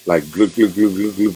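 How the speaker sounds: throaty gluk gluk like a lion's growl; rumbling motorbike-like gluk noises; guttural growl imitation. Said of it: "like guttural growl".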